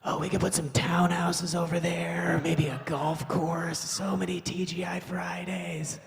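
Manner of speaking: slow, hushed whisper; whispered astronaut. Acted. Astronaut off the rover, slow hushed whisper. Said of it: "astronaut come bounding off the rover and just be like".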